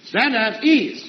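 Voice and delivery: drawn-out drill command. Acted.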